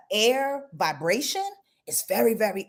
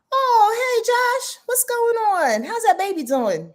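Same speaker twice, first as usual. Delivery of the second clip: much higher, bright hello; excited greeting; 12 semitones higher, 3 dB louder, slower than usual. Real, not acted. Host greeting viewer Josh in chat, high and excited.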